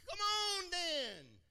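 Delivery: hammed-up gung-ho yell; eager armor bearer. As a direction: shout it like a ready friend. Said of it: "What does he say?".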